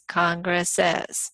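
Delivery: "Congress says" slowly, as CON-gress-iz; slow Congress's. Shown as a demonstration.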